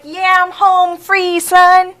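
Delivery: loud, slow, cocky crow of victory; triumphant shout. Retold or imitated. Boasting loudly after pushing through the gate. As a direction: belt it out like you just won.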